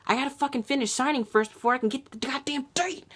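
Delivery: retold irritated retort to the cop; exasperated snap. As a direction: fire it back at her, fed up. Snapping at cop about date.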